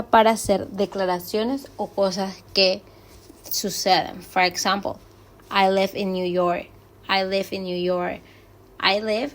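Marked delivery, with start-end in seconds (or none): 5.5-8.2 level start, YORK dipping slightly at the end; falling intonation. Shown as a demonstration. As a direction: state it, letting YORK drop a little. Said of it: "baja un poquito al final de la oración".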